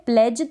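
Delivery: प्लेज said as pledge, no d; silent d. Shown as a demonstration. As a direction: say प्लेज cleanly. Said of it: "क्या बोलते हैं?". (प्लेज, डी silent)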